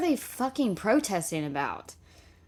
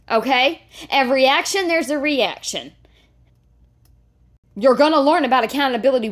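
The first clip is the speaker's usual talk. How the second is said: angry shouting; 3 semitones higher than usual. Real, not acted. Yelling at the mother about accountability.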